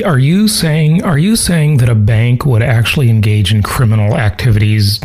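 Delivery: mock-serious deadpan question; sarcastic. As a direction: ask it with feigned shock. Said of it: "I'm being sarcastic".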